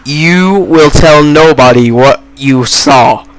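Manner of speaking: slow, measured mock threat; murder in his voice. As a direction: imitate a menacing warning, spacing out the words. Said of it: "with murder in his voice".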